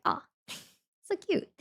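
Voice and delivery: high, soft little coo with a giggle; cooing delight. Retold or imitated. Acts out reaction to hearing it.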